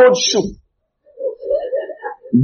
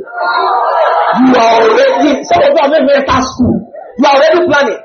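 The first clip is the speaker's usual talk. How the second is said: mocking laughter; 4 semitones higher than usual. Real, not acted. Mocking students planning weddings.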